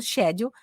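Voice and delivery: "schedule" starting SH, no K; British pronunciation. Shown as a demonstration. Teacher telling students her own choice, British SH in "schedule". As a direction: say "schedule" as SH-edule, British style. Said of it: "é a pronúncia britânica".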